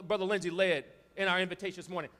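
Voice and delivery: normal talking voice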